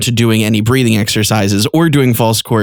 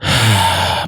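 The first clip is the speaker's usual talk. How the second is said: quiet small sigh; a weak sigh, not open; soft closed sigh; 5 semitones lower than usual. Shown as a demonstration. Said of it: "not a".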